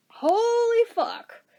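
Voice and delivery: slow, high, stunned disbelief. Retold or imitated. Reacting to the coworker's revelation, stunned. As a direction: drag it out in shock.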